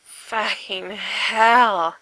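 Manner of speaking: very slow, sighed-out curse, almost in awe; reverent sigh. Acted. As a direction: let the words melt out on a long reverent sigh. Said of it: "Frank sighed reverently".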